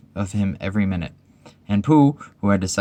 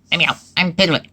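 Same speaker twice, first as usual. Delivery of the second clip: high, loud, urgent protest; crying out; 10 semitones higher, 5 dB louder than usual. A narrator's reading. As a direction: cry out to be released. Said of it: "cried Piglet".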